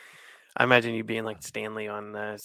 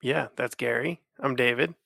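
nasal voice; 5 dB louder than usual. Real, not acted. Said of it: "sorry if I sound nasally".

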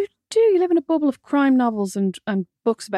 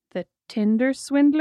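smug guess; 2 semitones higher, slower than usual. Retold or imitated. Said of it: "like a genius, went".

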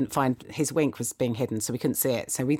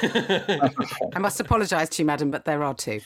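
mock formal doctor. Mock doctor breaking the news.

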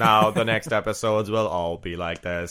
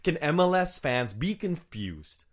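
mock exasperation; 5 semitones higher, slower than usual. Sketch: pitcher argues.

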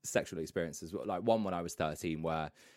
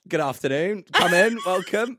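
mock welcoming host; 10 semitones higher, 12 dB louder than usual. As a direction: play the gracious host welcoming guests in. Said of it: "sometimes I was like".

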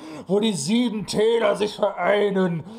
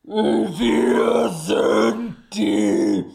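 villain announcement; 3 semitones higher, much slower than usual. Acted. Villains announce themselves grandly.

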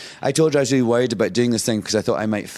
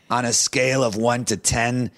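tag stoned friend. Retold or imitated. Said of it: "sort of staggering around".

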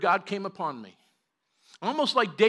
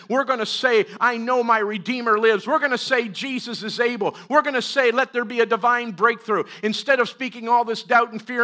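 firm, forceful scolding, louder at the start; harsh rebuke; 4 semitones higher, 6 dB louder than usual. Retold or imitated. Father sternly rebukes his child's doubt, firm and forceful. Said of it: "I was too harsh".

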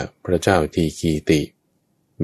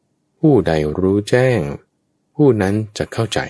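slow raised proclamation; 4 semitones higher, slower than usual. Acted. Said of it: "แล้วก็บอกด้วยว่า".

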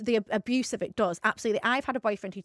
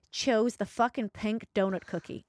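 put-on light American accent, reading a friend's message; a hint of an American accent, slow on jackass; slower than usual. Reading the sister-in-law's message in a lightly put-on American accent. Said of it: "do it in an American voice".

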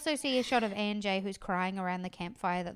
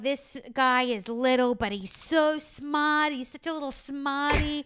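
put-on slow, higher cooing over a small child; doting baby talk; 3 semitones higher than usual. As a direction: coo at him like a proud grandparent. Producers gushing over little Alex.

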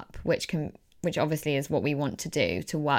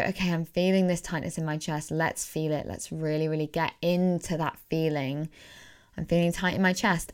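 calm self-talk. Shown as a demonstration. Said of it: "I just go".

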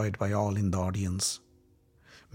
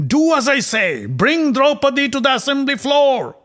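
much higher, louder furious command; yelling; 13 semitones higher, 7 dB louder than usual. Acted. Prince yells at his frightened messenger, furious. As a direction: bark the order at a trembling servant. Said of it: "He'd yelled at Pratikami".

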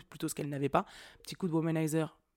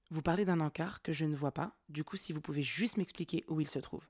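composed, unhurried polite request, softening at the end; voix très calme. Retold or imitated. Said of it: "j'ai pris une voix très calme". (demande posée, très calme)

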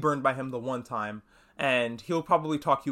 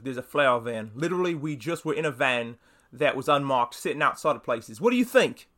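Butcher. Retold or imitated. Butcher explains the flower van to Huey, bad British accent. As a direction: put on a clumsy British accent, punch the closing question. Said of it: "Sorry for my bad British accent".

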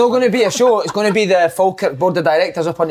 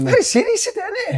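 mock serious; 3 dB quieter than usual. Teasing a serious question.

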